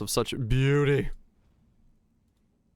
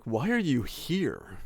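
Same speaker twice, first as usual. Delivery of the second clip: mock incredulous; 3 semitones higher, slower than usual. Retelling strangers' reaction.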